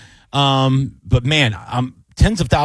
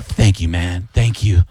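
low, sincere imitated thanks; retold heartfelt gratitude; 6 semitones lower, slower than usual. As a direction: thank him deeply, pitched down. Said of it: "the satisfaction in his face".

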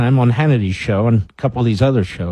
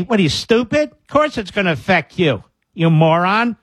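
incredulous scolding, pitched up; mock exasperation; 5 semitones higher than usual. Host answering the imagined complaining voters, exasperated. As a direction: scold them in high-pitched disbelief.

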